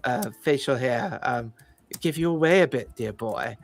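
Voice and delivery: a lightly voiced condescending fey noble; polite, fussy and faintly hesitant officialdom; haughty fey official. GM as fey security chief greeting the party, lightly haughty. GM voices Sir Thorned Shade.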